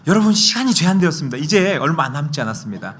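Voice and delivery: fast, high, loud countdown plea; urgent pitch. Shown as a demonstration. Preacher mimicking an urgent pitch to an audience, fast. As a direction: hurry them like a salesman. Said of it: "긴박성을 드러내는".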